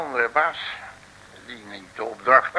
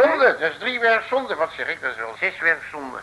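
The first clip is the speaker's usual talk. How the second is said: mock outrage. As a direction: parody the mayor's indignation. Companion echoes outrage. (spottend verontwaardigd)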